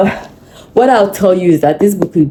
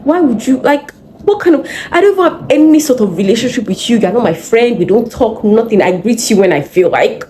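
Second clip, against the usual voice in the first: higher-pitched, indignant replayed scolding; retold anger; 5 semitones higher than usual. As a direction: put him in his place, acting out past anger. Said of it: "I was so angry".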